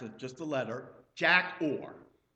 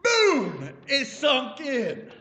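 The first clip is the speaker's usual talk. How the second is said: emphatic climax; 8 semitones higher, 9 dB louder, much slower than usual. Acted. Climax of story.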